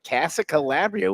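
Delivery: Casa Calabria sung out like a doting Italian mother. Retold or imitated. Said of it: "I conjured my mother".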